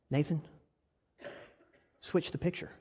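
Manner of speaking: brother's gentle words. Retold or imitated. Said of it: "And he tells me".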